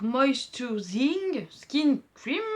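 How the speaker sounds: slow, drawn-out English accent on Moisturizing Skin Cream; her English accent. Shown as a demonstration. Beauty vlogger reading a cream's name aloud, in her English accent. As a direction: read the English product name slowly in a put-on English accent. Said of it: "Mon accent anglais".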